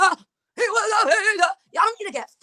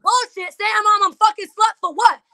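heated outrage; 6 semitones higher than usual. Real, not acted. Heated argument defending herself.

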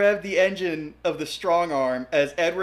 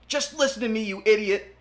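high, fast shout over the wind; 5 semitones higher, 4 dB louder than usual. Acted. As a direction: yell over roaring wind. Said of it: "Edward shouted over the rushing wind".

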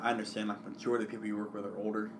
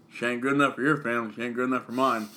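Indiana motto; 2 semitones higher, 8 dB louder than usual. Pretend. Friend mocking the Texan with an Indiana motto, mock twang. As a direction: recite it like a proud local saying. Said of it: "what the motto is".

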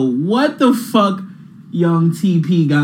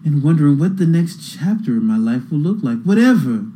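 billionaire voice. Pretend. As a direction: read the caption as a smug billionaire. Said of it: "I'm throwing a billionaire voice on".

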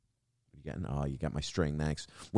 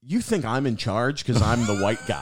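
raised, loud incredulous punchline; mock realisation; 4 semitones higher, 5 dB louder than usual. Worker realising why she blames him, raised mock incredulity. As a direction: call it out as a dawning realisation. Acted realisation aimed at angry woman.

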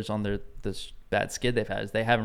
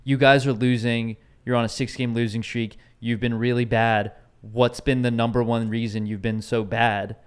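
mock reporter question; 4 dB louder than usual. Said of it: "when you ask a question like".

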